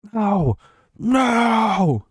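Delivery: two sharp high nos rising to a shout. Real, not acted. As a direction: yell it out in protest. Outraged reaction to Mahomes talk.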